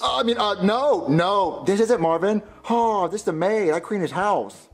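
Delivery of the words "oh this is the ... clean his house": slow, badly faked Hispanic accent. Man fooling police by posing as the maid, fake Hispanic accent. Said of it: "what accent was that supposed to be".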